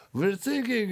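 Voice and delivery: high, mock-panicked cry for help; hammed-up high plea; panicked Mayday call. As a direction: play a frantic distress call for a joke. Acting out a Mayday call in joke.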